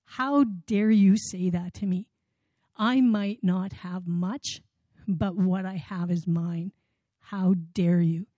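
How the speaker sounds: slow, indignant retold scolding; measured, indignant "how dare you"; angry retort. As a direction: scold slowly, offended. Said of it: "she shakes her finger in my face".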